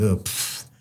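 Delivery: soft breathy scoff of contempt; dismissive pfft. Retold or imitated. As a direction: scoff under the breath, barely voiced. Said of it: "the eye rolling".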